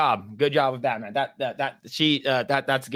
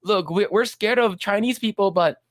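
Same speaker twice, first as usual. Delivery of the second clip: put-on higher, slow scolding kid voice; scolding Cartman; 5 semitones higher than usual. Cartman scolding Butters, high mock scolding. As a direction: scold him, high and drawn out. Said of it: "He's like".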